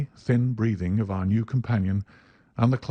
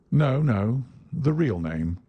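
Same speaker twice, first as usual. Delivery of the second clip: sweetly; 3 semitones higher, slower than usual. Acted. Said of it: "said Holmes sweetly".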